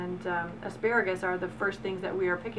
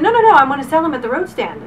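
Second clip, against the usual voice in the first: higher, louder retold insistence; emphatic protest; 6 semitones higher, 12 dB louder, faster than usual. Girlfriend insisting she'll sell them at the stand, emphatic protest. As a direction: imitate a friend cutting in emphatically.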